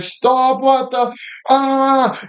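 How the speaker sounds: very high-pitched imitation of a horrified girlfriend; mock panicked scream. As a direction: squeal in mimicked disgust and panic.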